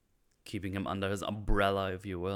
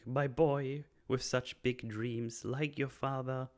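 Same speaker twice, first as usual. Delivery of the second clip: mother's voice; 5 semitones higher, much slower than usual. Retold or imitated. Son's mother, recalling his father, in a slow doting voice. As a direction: coo it slowly like a fond mother.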